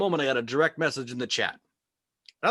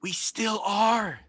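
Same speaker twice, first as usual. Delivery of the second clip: exasperated; 10 semitones higher, 5 dB louder, much slower than usual. Acted. Comic's exasperated reply to chat.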